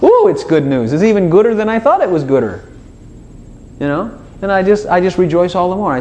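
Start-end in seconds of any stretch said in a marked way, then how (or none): 0.0-2.6 delighted exclaiming. Acted. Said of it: "I just laugh and say".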